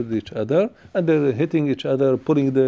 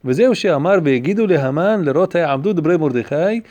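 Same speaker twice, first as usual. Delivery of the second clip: quick, louder chanted reading of the commentary; text recitation; 2 semitones higher, 3 dB louder, much faster than usual. Acted. Rabbi reading the commentary to his class, fast singsong recitation. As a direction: rattle the Hebrew text off like a study-hall chant.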